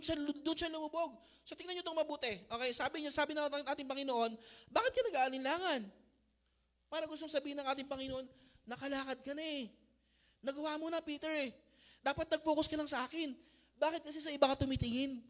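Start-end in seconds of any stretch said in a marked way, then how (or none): 4.7-5.8 Lord's rebuke. Acted. Preacher voicing the Lord rebuking. 8.7-15.2 Jesus scolding Peter. Acted. Preacher voicing Jesus to Peter.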